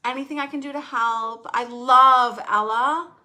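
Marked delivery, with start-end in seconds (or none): 0.0-1.5 gentle ask. Shown as a demonstration. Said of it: "what should we ask instead".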